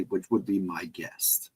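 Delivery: slow breathy whisper, almost to himself; whispered aside. Real, not acted. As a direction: drop to a slow whisper for the guess.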